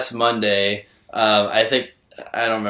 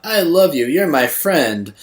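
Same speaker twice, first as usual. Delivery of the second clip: over-the-top sappy; 5 semitones higher than usual. Retold or imitated. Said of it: "so over the top".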